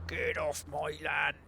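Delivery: slow whispered fist-shaking yell; whispered mock yell. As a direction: hiss the threat slowly. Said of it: "shaking my fist at this car".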